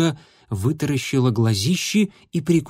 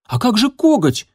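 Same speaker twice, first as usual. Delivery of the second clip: much higher, protesting tone; an outraged, high-pitched question; indignant; 10 semitones higher, 4 dB louder than usual. Acted. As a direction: object sharply, indignant. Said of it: "возмутился Дымок".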